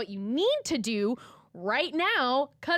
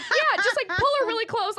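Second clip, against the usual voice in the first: imitating photographer; 10 semitones higher, 5 dB louder than usual. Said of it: "She's like".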